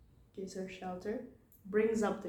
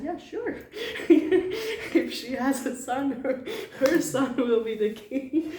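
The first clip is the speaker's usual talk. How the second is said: high, loud, laughing yes; breezy, amused promise; laughing agreement; 5 semitones higher, 10 dB louder than usual. Retold or imitated. King promising Kaikeyi's father.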